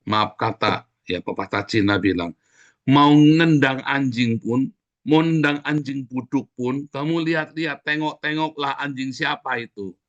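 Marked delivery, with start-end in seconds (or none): 2.8-10.0 slow, higher-pitched delivery; quoted proverb, drawn out. Retold or imitated. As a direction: stretch the saying out deliberately. (pepatah diucapkan lambat dan ditekankan)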